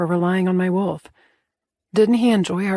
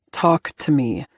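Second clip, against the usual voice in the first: demanding; 4 semitones lower, slower than usual. A narrator's reading. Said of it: "a demand, one underlined in steel".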